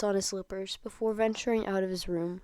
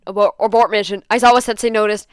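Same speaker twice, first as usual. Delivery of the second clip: loud frantic yell, pitched up; panicked shout; 3 semitones higher, 14 dB louder, faster than usual. Acted. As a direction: scream the retreat order. Cover blown, Denki panics.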